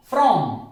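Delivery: from with a clear R after F; R pronounced. Shown as a demonstration. Teacher repeats the example, R pronounced in from. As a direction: sound the R in "from". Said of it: "आर का उच्चारण होगा".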